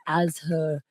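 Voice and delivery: very slow, soft whispered narration; mock sensual whisper. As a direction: whisper it like steamy audiobook erotica. Joins in mock erotica reading.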